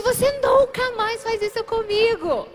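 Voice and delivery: high, slow, emphatic scolding; retold anger. Angry girlfriend confronts boyfriend who hid, scolding. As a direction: act out furious telling-off, drawing the words out. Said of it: "brava, brava".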